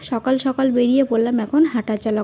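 talking around a toothbrush; while brushing teeth. Real, not acted. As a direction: speak with a toothbrush in the mouth. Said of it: "brush করতে করতে রাস্তা দিয়ে একটুখানি হাঁটাচলা করে আসি".

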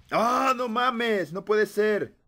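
long, slow groan of disbelief; drawn-out dismay. Real, not acted. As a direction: stretch it out, can't believe it. Just got killed in game.

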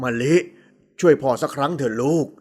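low-pitched, subdued fatherly plea; earnest low father's voice; pleading father. A narrator's reading. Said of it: "ระบายลมหายใจออกมา".

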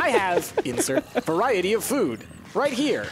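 mock robotic voice, slow, laughing. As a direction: drone it like a machine reading. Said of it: "like a robot would say".

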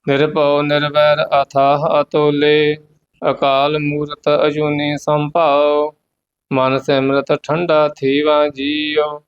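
measured, devout path recitation; scripture recitation. Acted. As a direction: recite the hymn steadily and reverently. (ਪਾਠ ਦਾ ਉਚਾਰਨ)

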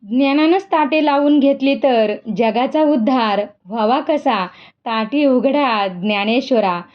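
a touch of calm solemnity, understated; Mukta's serious, composed plea, lightly voiced; grave, steady voice. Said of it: "ती धीरगंभीर आवाजात म्हणाली".

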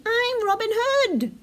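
high, playful little bear boast; shouting. A narrator's reading. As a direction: declare it like a child at play. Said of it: "he shouted".

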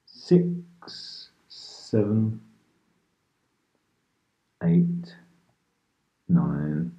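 calm hypnotist counting with long pauses; unhurried sleep-meditation guidance; guided meditation. Real, not acted. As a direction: lead a listener gently into relaxation, leaving space after each phrase.

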